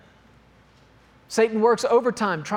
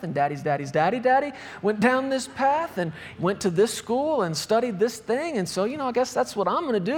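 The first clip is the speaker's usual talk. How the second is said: lightly voiced go-along reasoning, a bit higher; naive follower; 3 semitones higher than usual. Preacher voices someone following daddy's path, naive reasoning. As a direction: run on in a singsong list of lame reasons.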